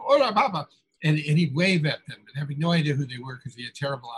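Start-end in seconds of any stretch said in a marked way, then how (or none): 0.0-0.7 higher, louder hailing call; retold street shout. Cubans greeting Hemingway down the street, imitated shout. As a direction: imitate a crowd calling out to someone passing. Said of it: "all these people are shouting out".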